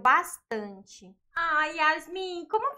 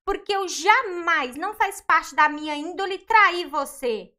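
raised, hurt voice pushing back at him; louder, defend your honour to your husband; wife defending herself against her husband's doubt, indignant and raised; indignant argument; 3 semitones higher, 6 dB louder than usual. Acted.

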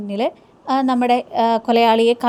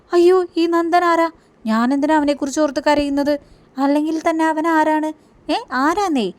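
lightly voiced in a higher, innocent girl's voice; higher mock-innocent questioning; Soundarya's reply; 5 semitones higher than usual. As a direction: play her as puzzled and childlike, a notch higher. Retold serial heroine Soundarya's reply.

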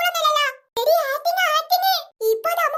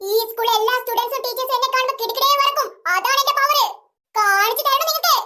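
pretend grand madam; 2 semitones lower than usual. Pretend heiress boasts power.

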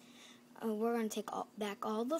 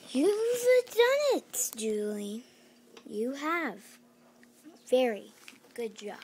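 gloating villain; 5 dB louder, slower than usual. Acted. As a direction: stretch it out, gloating. Villain praises her.

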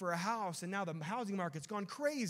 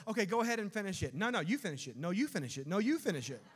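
mock bickering; 2 semitones higher, 3 dB louder than usual. Acted bickering between spouses.

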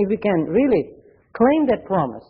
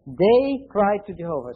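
"They" stressed, "cried to Jehovah" said slowly; unhurried underlined repeat; slow emphasis on they. Shown as a demonstration. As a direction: weigh "They" and drag the rest out. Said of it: "I want to underline".

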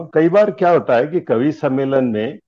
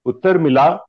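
measured lines with lilting stage delivery; declaimed Hindi humorous verse; comic poem recitation; 3 semitones higher than usual. Acted. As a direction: recite it like verse at a poets' gathering.

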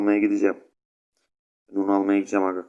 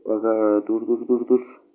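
urgent stop; slower than usual. Real, not acted. Panics in the match.

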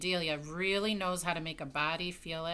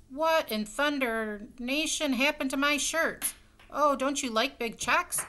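higher, louder, slow indignant roar; 7 semitones higher, 5 dB louder, slower than usual. Acted. Husband roaring about his painted shirts, loud and slow. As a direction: bellow at the ruined shirts. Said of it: "Mister Rogers roared".

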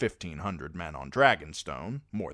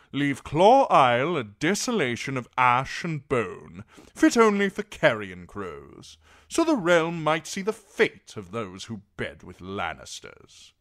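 loud, high, declaiming knight; forceful war-hawk oratory; Sir Axel, vengeful; 6 semitones higher, 10 dB louder than usual. A narrator's reading. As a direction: call for ruin in a raised, ringing voice.

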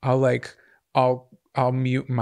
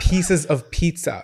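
laughing; 2 semitones higher, much slower than usual. Real, not acted. Laughing while telling.

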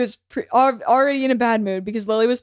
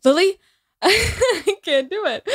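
laughing through the quote; 5 semitones higher than usual. Retold or imitated. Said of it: "And Daisy goes".

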